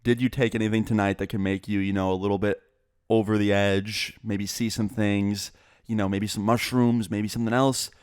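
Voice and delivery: gentle retold coaxing, with careful pauses; mildly tentative, nice questioning; asking real nicely. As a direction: coax the truth out of mom tactfully. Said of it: "asked her one time real nicely".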